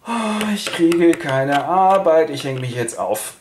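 slow, hammed-up lament; mock despair. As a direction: wail theatrically about no work. Yang Sun verzweifelt, will sich erhängen. (übertrieben langsam klagend)

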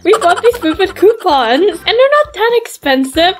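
lightly voiced mother, pitched high; a hint of a matter-of-fact mom voice; correcting mother. Mother exposing her daughter's lie, matter-of-fact.

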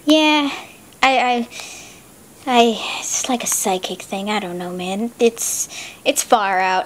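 spacey hippie. Acted. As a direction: drift off like a stoner.

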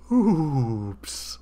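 lightly voiced sheepish oops; a small guilty slip; a hint of an embarrassed deity; Jesus saying oops. A narrator's reading. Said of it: "said Jesus".

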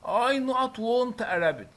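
slow, stressed read-out of the sentence. Shown as a demonstration. Teacher reading the sentence slowly to pupils. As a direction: read each word slowly for the class.

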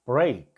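"break" with a strong long ay and a light final k; "break" said clearly as brayk for learners; pronunciation demo. Shown as a demonstration. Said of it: "이렇게 읽으면 되겠죠".

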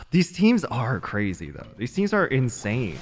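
ordinary talk

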